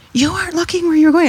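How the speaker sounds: high, loud mock scolding; imitating an angry old woman. Elderly woman scolding the driver in the lot, a high, loud mock scold. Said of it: "the same woman who, you know, rushed me forward was like".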